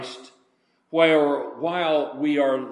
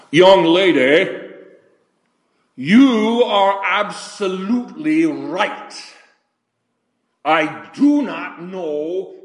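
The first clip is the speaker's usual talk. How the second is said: put-on British accent; 4 semitones higher, 3 dB louder, slower than usual. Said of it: "in his very British accent".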